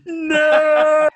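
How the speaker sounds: high, loud cry of protest through a laugh; laughing mock protest. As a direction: wail no, half laughing. Reacts to Allen wrench task.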